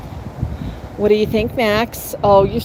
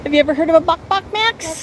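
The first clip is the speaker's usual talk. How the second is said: coaxing bird talk; 7 semitones higher, faster than usual. Acted.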